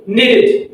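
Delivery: "Needed" in two beats, nee-did. Shown as a demonstration. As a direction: model "Needed" with a full "id". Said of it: "pronounced et or it".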